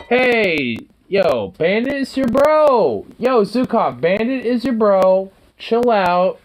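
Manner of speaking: talking to a dog. Real, not acted. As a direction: coax the puppy gently. Lecturing puppy in pet voice.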